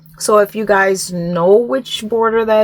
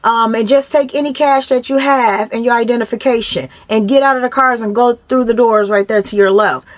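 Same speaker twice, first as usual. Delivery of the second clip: higher-pitched, measured mock commands, said nicely; toned-down drill sergeant; 3 semitones higher than usual. Officer ordering drivers out of their cars, a nice version of yelling. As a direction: imitate yelled orders without the volume. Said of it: "yelling like a drill sergeant. Like, I'm saying it nice".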